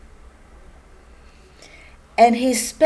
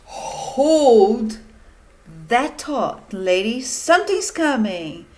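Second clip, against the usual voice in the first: a raised reporter call; mild cry; 5 dB louder than usual. Acted. Reporter interrupting mama, raised announcing cry. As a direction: cut her off with a loud call. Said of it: "cried Mister Hamstring".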